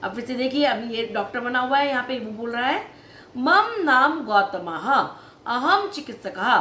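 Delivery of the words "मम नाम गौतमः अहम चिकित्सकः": slow, clear Sanskrit for pupils to repeat; teacher modelling words for children to echo; slow model pronunciation. Shown as a demonstration. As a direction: say "मम नाम गौतमः" slowly, each syllable clear. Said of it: "जो मैं words का pronounce कर रही हूँ, आप भी उसको सेम प्रोनाउंस करते जाइए".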